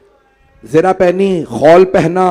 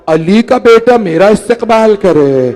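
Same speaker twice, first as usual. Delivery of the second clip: higher, louder, slow tearful cry of disbelief; 5 semitones higher, 6 dB louder than usual. Acted. Hur weeping as Abbas comes to welcome him, tearful cry. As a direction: let it break out through tears, slowly. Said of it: "जनाब हुर के आंसू बहने लगे".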